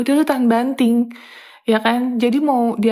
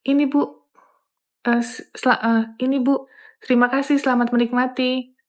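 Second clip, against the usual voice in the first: slow one-by-one serving. Shown as a demonstration. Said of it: "Kan lama ya ceritanya ya".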